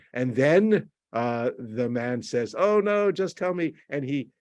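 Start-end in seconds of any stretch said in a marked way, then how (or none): 2.6-3.7 high mock dismay; exaggerated upset. Boyfriend begging girlfriend for a hint, exaggeratedly upset. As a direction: plead in a raised, put-on upset voice. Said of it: "these kinds of very exaggerated".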